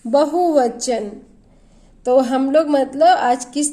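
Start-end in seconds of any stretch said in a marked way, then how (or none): 0.0-1.1 slow answer. Shown as a demonstration. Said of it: "जब बहुत सारी चीज़ों की बात करते हैं".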